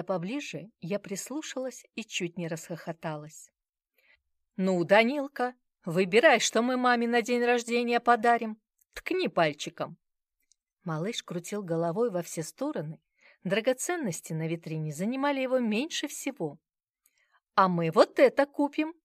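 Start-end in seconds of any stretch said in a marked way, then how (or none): 4.6-10.0 coaxing grandfather. Acted. Grandfather coaxing toddler at jewellers. 17.5-18.9 high, loud fawning offer; flattering. A narrator's reading. Grandmother fawning over the child in a jewellery shop, flattering. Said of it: "льстиво предложила Зоя Фёдоровна".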